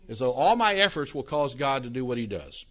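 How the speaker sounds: ordinary talk, nothing marked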